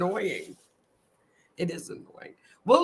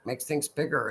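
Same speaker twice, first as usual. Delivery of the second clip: whisper; 4 semitones lower, 6 dB quieter than usual. Real, not acted. Whispered echo.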